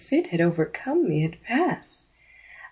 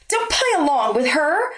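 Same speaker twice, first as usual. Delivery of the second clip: higher pleading cry; higher, urgent appeal; 8 semitones higher, 3 dB louder than usual. Acted. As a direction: beg her friend not to go along. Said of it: "the blonde cried to Ashley".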